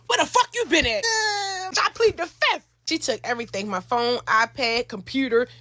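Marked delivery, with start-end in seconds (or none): 0.1-1.0 tearful. Retold or imitated. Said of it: "I get to tearing up". 1.0-2.6 tearful. Retold or imitated. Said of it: "I get to tearing up".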